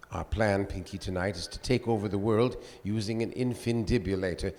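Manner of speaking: a lightly voiced Brain as Welles; Orson Welles voice. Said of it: "I did, Orson Welles".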